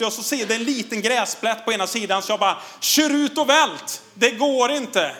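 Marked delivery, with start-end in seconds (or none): 2.8-5.2 retold panicked cry, higher and slow; imitating the boy's despairing yell down the hill; mock desperate shout. Son crashing his bike, calling out in mock despair. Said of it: "ropar bara en helt förtvivlad killen".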